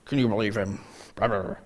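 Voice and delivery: low, soft mock murmur of complaining voices; mock grumbling murmur. Disciples grumbling among themselves about Jesus, low mock murmur. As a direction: mumble it like a crowd grumbling under their breath. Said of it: "you murmur among yourselves".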